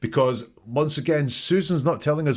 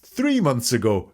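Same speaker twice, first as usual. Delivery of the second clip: hesitant correction; 9 semitones higher, slower than usual. Retold or imitated. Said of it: "she thinks about it a little bit more".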